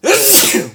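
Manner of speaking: real sneeze. Real, not acted. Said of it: "I just sneezed my fucking head".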